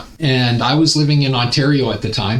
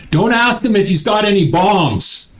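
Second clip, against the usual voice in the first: the joking buddy ribbing him at check-in; mocking buddy; 6 semitones higher than usual. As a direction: toss it off like a prankster friend.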